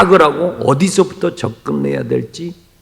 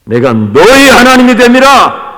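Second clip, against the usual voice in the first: louder, higher proclamation of 너의; proclaimed verse; 7 semitones higher, 8 dB louder than usual. Acted. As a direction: ring it out as God's voice. Proclaims the verse loudly, then repeats.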